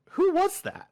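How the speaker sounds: high-pitched retold outburst; sharp, high, acted-out question; alarmed demand. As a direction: imitate an engineer's startled demand. Engineer demands who stranger was.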